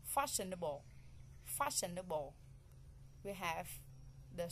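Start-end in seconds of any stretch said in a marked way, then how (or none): 0.0-2.3 "Fashionable" leaning on the first syllable; stress on first syllable. Shown as a demonstration. Teacher models "Fashionable" to locate the stress, first syllable stressed. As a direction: stress the start of "Fashionable", let the rest fall. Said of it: "the first".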